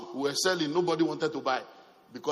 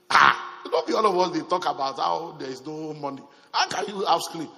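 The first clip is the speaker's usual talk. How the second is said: loud astonished challenge, raised voice; 6 dB louder than usual. Retold or imitated. To his pastor friend about the screen, loud astonished challenge. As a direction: press your friend in disbelief, louder.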